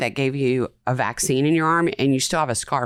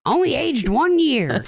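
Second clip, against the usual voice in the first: mock announcement; 11 semitones higher than usual. Joking about whiskey age label.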